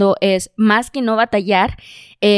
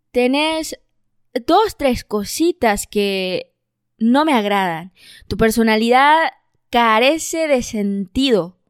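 mock Spain Spanish. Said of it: "eso fue lo mejor que pude hacer con España".

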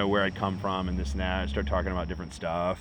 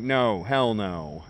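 very slow, drawn-out hell no; emphatic refusal; 4 dB louder, much slower than usual. Retold or imitated. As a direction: stretch out each word to shut him down. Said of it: "I'm like".

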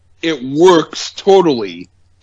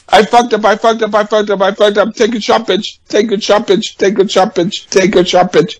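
pull string toy; 4 semitones higher, faster than usual. Retold or imitated. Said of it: "you pull the string, goes".

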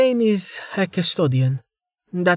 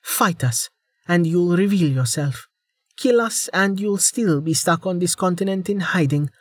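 heated ultimatum; 7 semitones higher than usual. Acted.

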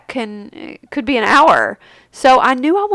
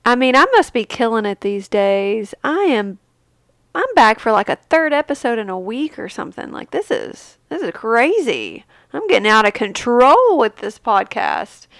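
nasal from a cold; talking through a blocked nose; stuffy nose. Real, not acted. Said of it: "excuse my cold".

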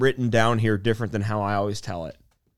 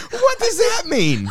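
high, laughing question; slower than usual. Real, not acted. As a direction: laugh through the words. Laughing at the joke's punchline.

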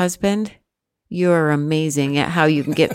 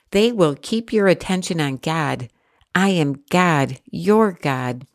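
measured, even Bible reading voice; scripture reading. Acted. Reading Numbers aloud to her listener, measured scripture reading. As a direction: read the passage steadily aloud.

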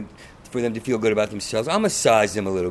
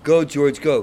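cheering; 6 dB louder, slower than usual. Retold or imitated. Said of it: "pretty boys were all like".

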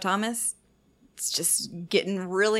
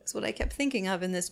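put-on very old faint voice. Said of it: "you just became a ninety-year-old woman".

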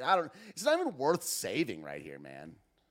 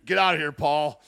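mock threat; 6 dB louder than usual.

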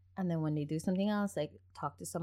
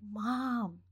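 put-on slow, higher excited kid report; 1 excited child voice; 5 semitones higher, slower than usual. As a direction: play the son bursting with news. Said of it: "he's like".

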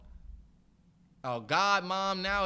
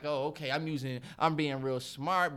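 a hint of smug, proper diction, a bit lower; mock proper talk; 4 semitones lower than usual. Host imitating the clip's proper speaker, lightly smug. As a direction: lightly send up someone pleased with sounding smart. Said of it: "all proper and all of that shit".

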